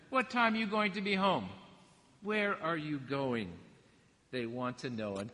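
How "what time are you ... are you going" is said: a hint of a nagging mom; lightly voiced mother grilling her kid; mama asking questions. Preacher imitating a mother questioning her teenager, mild mock nagging. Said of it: "Isn't that such a mama thing to say?".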